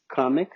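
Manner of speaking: kamek as "KAH-mik", English short-o vowel; English pronunciation. Shown as a demonstration. Teacher showing syllable division, kamek pronounced in English. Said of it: "como que a gente divide a sílaba".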